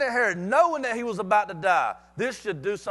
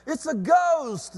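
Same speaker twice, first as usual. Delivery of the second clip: higher, drawn-out cry of alarm; acted fright, slow and raised in pitch; terrified exclamation; 5 semitones higher, 3 dB louder, slower than usual. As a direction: exclaim it in mock terror. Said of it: "They were terrified and said".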